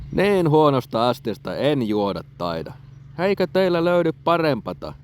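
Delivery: the hero protesting loudly to the trolls; indignant refusal. A narrator's reading. Hero refuses the poor cup.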